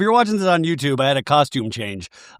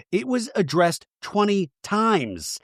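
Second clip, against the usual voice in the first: imitating Luke; 6 semitones higher, 4 dB quieter, slower than usual. Quiet Luke quoted.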